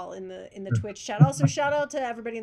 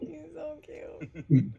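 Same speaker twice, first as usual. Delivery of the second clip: cooing; 7 semitones higher, much slower than usual. Real, not acted. Cooing over cat on camera.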